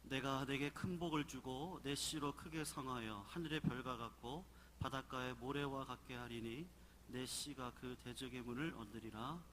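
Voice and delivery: normal talking voice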